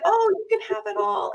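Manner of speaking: high, mocking parrot of a cliché; mocking everyone. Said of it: "everyone says that".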